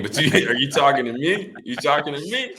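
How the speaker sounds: can't believe he's talking to you; stunned disbelief. Retold or imitated. Rookie stunned Tom Brady came to greet him, incredulous laugh. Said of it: "I was just standing there like".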